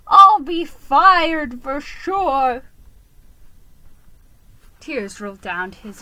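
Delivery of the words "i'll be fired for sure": loud, high, frantic rat voice; distraught rat driver. Acted. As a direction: pour out the disaster in a panic.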